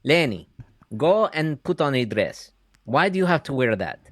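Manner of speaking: high nagging mother voice. Retold or imitated. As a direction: scold like a disapproving mother. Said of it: "And I'll do my mother".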